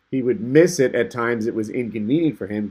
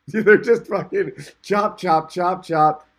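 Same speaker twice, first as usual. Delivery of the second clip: laughing; 6 semitones higher, 3 dB louder, slower than usual. Real, not acted.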